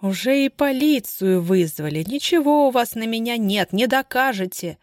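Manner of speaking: spiteful hiss. Acted. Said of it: "злобно прошипела Бажова".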